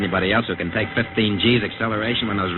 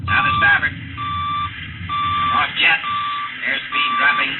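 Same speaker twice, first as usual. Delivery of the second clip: radio report. Acted. Pilot reporting altitude to control over the radio. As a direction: read out the figures to ground.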